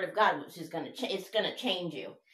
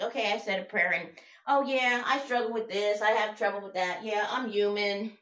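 mock excuse-making; 3 semitones higher, 4 dB louder than usual. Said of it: "It's not just like".

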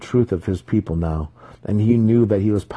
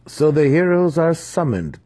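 chuckling; 9 semitones higher, 4 dB louder than usual. A narrator's reading. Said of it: "chuckled Zack".

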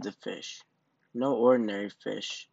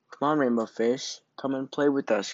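louder, higher call across the water; 4 semitones higher, 4 dB louder than usual. Acted. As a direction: call him over to play. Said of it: "called the others".

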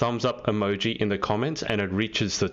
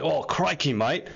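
broad outback Aussie accent, mock exaggerated; Steve Irwin; 4 semitones higher than usual. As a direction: ham up a bushman's Australian twang. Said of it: "you've gone full on, like, um, crocodile".

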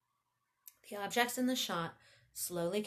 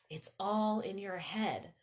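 louder, slower mantra with ALL drawn out; out-loud self-talk; slower than usual. A narrator's reading. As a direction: say it aloud to yourself, leaning on "all". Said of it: "and then once out loud".

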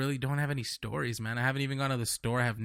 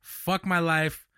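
drawn-out, exaggerated lament; mock despair; 4 semitones higher, 3 dB louder, much slower than usual. Real, not acted. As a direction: sigh it out in mock self-pity.

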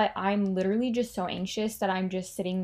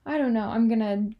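panicky thought spiral; 3 semitones higher, 5 dB louder than usual. Retold or imitated.

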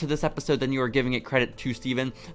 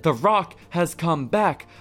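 quoted Rock line; 4 semitones higher, slower than usual. Retold or imitated. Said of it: "when you said".

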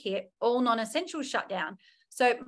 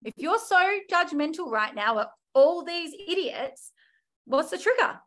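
self-coaching; 6 semitones higher than usual. Retold or imitated. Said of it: "sit myself down and be like".

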